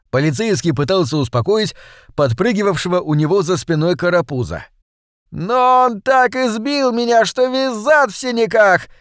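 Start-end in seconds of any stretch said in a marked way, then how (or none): 5.3-8.9 much higher, slow, insistent complaint; persistent whining. A narrator's reading. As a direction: keep pestering the constable. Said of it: "не унимался тот".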